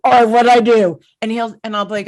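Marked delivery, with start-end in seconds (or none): 0.0-1.0 mock surprise. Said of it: "I go".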